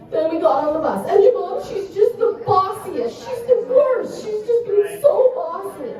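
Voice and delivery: daughter complaining. Retold or imitated. Daughter complaining to mom about bossy girl, imitated high whine. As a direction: draw out a hammed-up little-girl whine. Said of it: "She goes".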